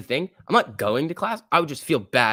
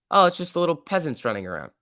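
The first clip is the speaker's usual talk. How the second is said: mock snobbish sneer; 5 semitones higher than usual. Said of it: "That's what they're literally saying".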